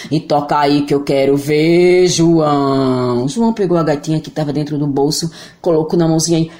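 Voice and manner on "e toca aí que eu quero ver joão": friendly monster voice. Acted.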